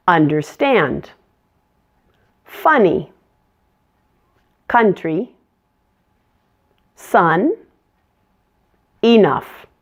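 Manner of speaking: each word slow with a clear uh; short U words. Shown as a demonstration. Teacher drills the corrected short U words with learners. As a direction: model understand, funny with a relaxed uh. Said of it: "let's say each of those short U words together".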